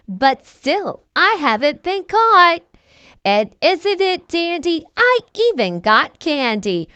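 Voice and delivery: sing-song the rhyme like a smug little trickster; lightly voiced gloating leprechaun. Leprechaun teasing the cat who failed, light playful voice.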